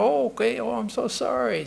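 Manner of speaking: sweetly sorry, up high; the Lady of the Lake apologizing to the woodman, high; apologetic goddess. Acted.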